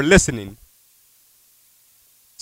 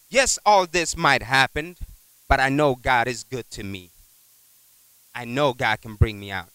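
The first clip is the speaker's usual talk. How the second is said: sincere testimony; 4 semitones lower than usual. Shown as a demonstration. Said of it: "your last sentence should be".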